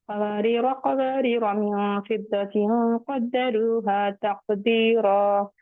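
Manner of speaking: slow recitation, कवारीरा with short final "ra"; measured Quranic reading, कवारीरा alif unsounded; alif left silent. Shown as a demonstration. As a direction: recite slowly, never lengthen the end of कवारीरा. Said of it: "इस तरह से इसको नहीं पढ़ेंगे".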